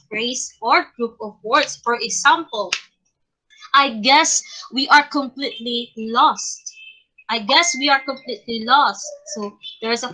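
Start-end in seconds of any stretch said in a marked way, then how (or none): 3.7-6.6 measured example sentence dropping on "lost"; deliberate demo, "lost" stressed and going down; falling intonation. Shown as a demonstration. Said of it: "falling intonation use the final stress". 7.3-9.0 "lost" falls to close the sentence; falling intonation. Shown as a demonstration. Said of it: "a falling intonation in that".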